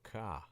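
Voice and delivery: "ka" with an open AH and no R; New York AH sound. Shown as a demonstration. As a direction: say "ka" like a New York "car", R dropped. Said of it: "asking for the A H sound".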